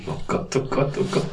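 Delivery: breathy soft groan at a bad pun; unvoiced "oh Gott" groan; groaning oh god. Real, not acted. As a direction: cringe quietly.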